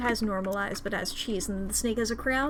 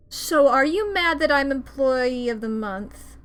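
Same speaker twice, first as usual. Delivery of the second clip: lightly voiced taunting rival; 6 dB louder than usual. Employee of the month taunting Mister Frog, lightly voiced. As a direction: needle him about the award.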